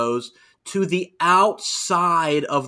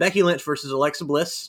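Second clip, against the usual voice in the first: usual speaking voice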